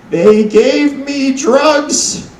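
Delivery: put-on slow, delighted old Jewish grandma; high and drawn out, thrilled about the pills; Jewish grandma accent. Grandma tells grandson about her new Vicodin, slow Jewish accent. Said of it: "if you couldn't tell by the accent".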